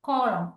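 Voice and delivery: "column" ending on M, no N sound; silent N. Shown as a demonstration. Teacher sounding out quiz words, silent N in "column". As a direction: say "column" alone, final N left silent. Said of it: "Just ആ words എല്ലാം ഒന്ന് pronounce ചെയ്ത് നോക്കുക".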